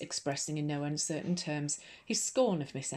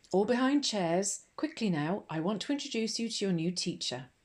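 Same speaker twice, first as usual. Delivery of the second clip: commanding call; 5 semitones higher, 4 dB louder than usual. A narrator's reading. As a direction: bark it at the whole class. Headmistress orders class behind chairs.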